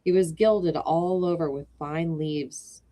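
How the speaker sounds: put-on children's story narration. A narrator's reading. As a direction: open the tale gently for children. Starts reading The Happy Prince.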